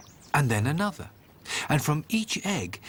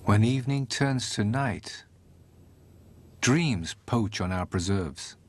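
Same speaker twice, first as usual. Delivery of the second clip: poetic narration; 2 semitones lower than usual. A narrator's reading. Storyteller musing on dreams, gentle reflective read.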